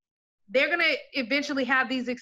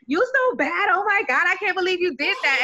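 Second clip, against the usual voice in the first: mock scandalized thrill; 7 semitones higher, 3 dB louder than usual. Voicing her own excited self-cheering.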